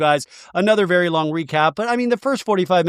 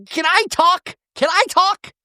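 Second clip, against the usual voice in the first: demanding to talk; 14 semitones higher than usual. Retold or imitated. Shannon demanding to speak.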